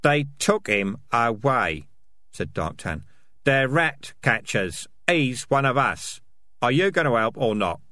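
pressing character voice; tough, insistent Dark Tan. Acted. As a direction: demand help, leaning on the words.

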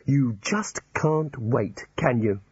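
slow, bitter reproach. Acted. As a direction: say it with resentment. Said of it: "said Rincewind bitterly".

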